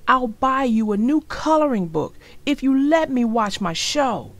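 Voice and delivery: lightly voiced boy bargaining. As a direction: try to bribe her. Arthur bargaining with sister.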